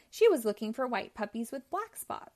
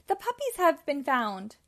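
joyful call, a bit louder; excited cry; 4 semitones higher, 3 dB louder than usual. Acted. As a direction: Pongo crying out the good news. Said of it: "cried Pongo".

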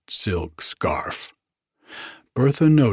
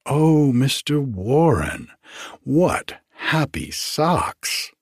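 gushing; 5 semitones higher, slower than usual. Acted. Hostess gushes over the socks.

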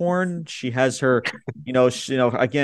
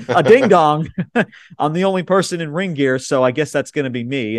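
laughing through a quote; 2 semitones higher, 3 dB louder than usual. Retold or imitated. Host retelling Bayley to co-host, laughing. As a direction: quote broken by giggles. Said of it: "she's like".

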